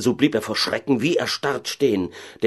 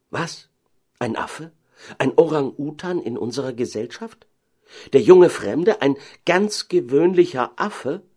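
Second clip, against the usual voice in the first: baffled questions rising into a louder cry; dumbfounded amazement; 6 semitones higher, 4 dB louder than usual. Acted. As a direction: build from stunned disbelief to a high outcry. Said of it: "riefen sie und sahen einander ganz dumm vor Verwunderung an". (verblüfft ausrufen)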